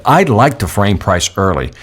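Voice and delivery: slow, deliberate repeat; slow emphatic repeat. Shown as a demonstration. Trainer repeating his pricing rule slowly. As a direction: say it again slowly. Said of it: "Listen to what I just said".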